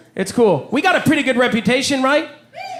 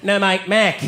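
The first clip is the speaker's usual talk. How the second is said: Australian insisting, R-less "Mac"; Australian accent; 2 semitones lower, slower than usual. Retold or imitated. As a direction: repeat "No, mate, Mac" in a broad Aussie drawl. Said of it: "they don't pronounce their R's".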